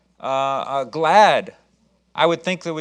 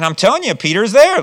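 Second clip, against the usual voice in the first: insisting; 6 semitones higher, 7 dB louder than usual. Acted. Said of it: "she constantly affirmed that it was so".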